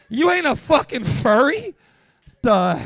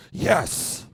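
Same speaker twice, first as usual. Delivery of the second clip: whispered yes; 6 semitones lower than usual. Retold or imitated. Triumphant whisper.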